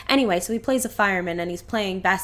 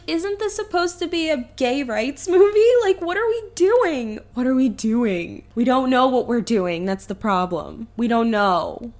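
exasperated; 2 semitones higher, 3 dB louder than usual. Retold or imitated. Viewer ranting at the movie, exasperated. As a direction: throw up your hands in disbelief. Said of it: "I was like".

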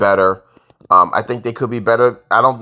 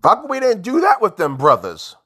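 regretful fan; 10 semitones higher than usual. Retold or imitated. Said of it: "you're gonna be like".

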